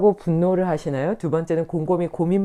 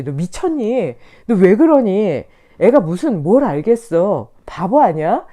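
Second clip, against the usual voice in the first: self-scolding; 6 dB louder, slower than usual. Retold or imitated. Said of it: "제가 저한테 이제 계속 그럴 것 같기는 해요".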